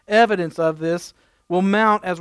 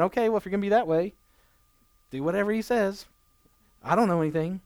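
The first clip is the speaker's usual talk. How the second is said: flippant sarcastic mother; 6 dB quieter, faster than usual. Retold or imitated. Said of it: "not being sarcastic or just flippant".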